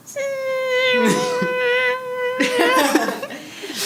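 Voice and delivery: high buzzing whine; mosquito whine. Pretend. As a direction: buzz like a mosquito. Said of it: "was that your mosquito".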